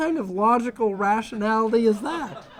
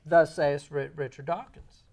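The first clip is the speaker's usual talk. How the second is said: mock solemn with a laugh; 6 semitones lower, 4 dB quieter than usual. Mocks Dawkins as scripture.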